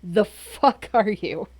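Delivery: loud, slow, stretched what-the-hell; mock loud demand. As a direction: drag out the rude question. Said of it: "my first thing would be like".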